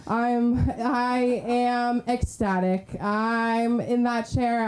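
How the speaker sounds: slow, drawn-out declaration of delight; deliberate hype. Real, not acted. Host to crowd before next comic, slow deliberate hype. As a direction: stretch each word with emphatic delight.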